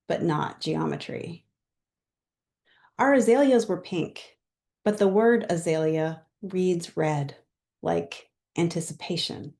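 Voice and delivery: measured poem recital with pauses between lines; poetry reading. Real, not acted. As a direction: read your poem aloud, line by line. Poet reads own poem.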